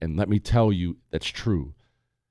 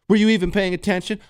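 suspicious wife; 9 semitones higher, faster than usual. Retold or imitated. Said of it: "follow-up question".

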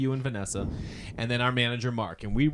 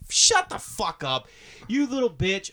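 louder, higher playful insult; mock angry yell; 7 semitones higher, 3 dB louder, slower than usual. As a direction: bark it as a joking friend. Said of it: "being like".

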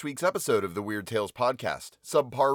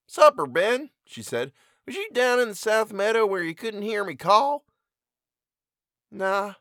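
higher rustic country voices for both figures; voiced farm mother and son; 8 semitones higher than usual. Mother questioning her son by the cornfield, higher rustic voices. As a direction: play the mother and her sullen boy.

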